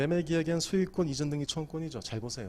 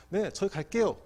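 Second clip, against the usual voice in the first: higher, louder acted confirmation; confident booked guest; 6 semitones higher, 6 dB louder than usual. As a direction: announce it readily, as a guest with a booking. (예약 손님처럼 높고 당당하게)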